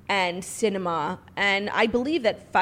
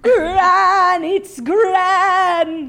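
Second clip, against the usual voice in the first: much higher, louder quavering granny voice; mock old Queen; 9 semitones higher, 9 dB louder, much slower than usual. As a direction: play the Queen answering. Voicing the Queen.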